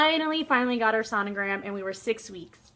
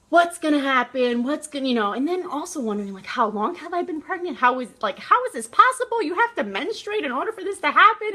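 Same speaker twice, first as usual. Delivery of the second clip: mock panicked wondering, pitch climbing high at the end; retold freak-out; 4 semitones higher than usual. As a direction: act out a spiral of worried questions. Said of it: "just really freaking out".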